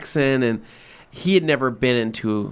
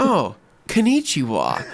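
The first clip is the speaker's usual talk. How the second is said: slow, affirmative delivery; mock-confident tourist greeting; imitated confident greeting; 2 semitones higher, slower than usual. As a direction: greet as if sure you've got it right. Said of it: "very confidently".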